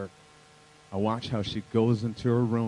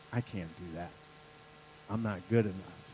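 defeated inner voice; 4 semitones lower, 6 dB quieter than usual. Retold or imitated. Voicing a listener's inner doubt.

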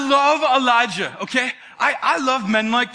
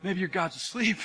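mocking taunt; 5 semitones lower, 6 dB quieter than usual. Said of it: "he's, like, in their face".

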